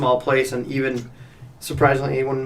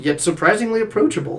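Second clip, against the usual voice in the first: mock label reading; 7 semitones higher than usual. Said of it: "It's packed with gusto".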